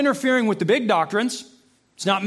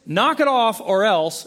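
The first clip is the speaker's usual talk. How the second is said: parental warning; 3 semitones higher, 5 dB louder, slower than usual. Retold or imitated. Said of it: "You ever said that to your kids?".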